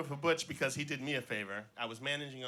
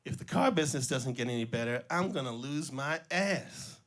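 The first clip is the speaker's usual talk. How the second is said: put-on drunk salesman louder; 6 dB louder than usual. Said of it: "he says".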